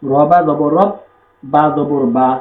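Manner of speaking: measured letter-by-letter Arabic drill; firm spelling-out. Shown as a demonstration. Teacher repeating the correct reading, firm spelling chant. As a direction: spell it evenly, weight on each syllable. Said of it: "শক্ত করে পড়তে হবে".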